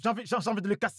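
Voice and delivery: fast, exasperated rant; frustrated outburst. Acted. Man raging at his laptop. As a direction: rant about smashing it.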